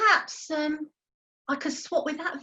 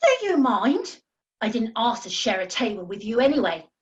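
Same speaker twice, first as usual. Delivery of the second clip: loud, offended snap at the table; indignant outburst; 3 semitones lower, 5 dB louder than usual. Acted. Tiffany snapping at Charlie's has-been jibe, indignant and loud. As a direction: bristle and bite back.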